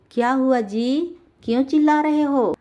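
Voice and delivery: a wife calling out high and worried; wife's voice. Acted. Wife asks her shouting husband what happened, high voice. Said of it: "रंगीला की पत्नी बोलती है".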